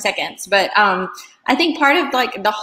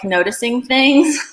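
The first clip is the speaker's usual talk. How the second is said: spiritual voice; 5 semitones higher, 4 dB louder, slower than usual. Shown as a demonstration. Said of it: "definitely don't use that voice either".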